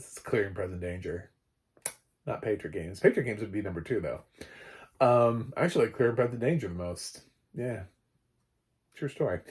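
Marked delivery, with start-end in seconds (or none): none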